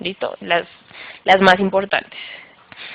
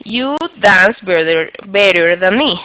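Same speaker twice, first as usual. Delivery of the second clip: slow example sentence; slower than usual. Shown as a demonstration.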